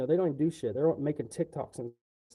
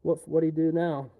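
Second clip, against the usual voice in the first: mock surprise; 3 semitones higher, 4 dB louder than usual. Manager hearing another complaint, mock surprised exasperation. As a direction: play a fed-up manager. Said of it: "the manager's like".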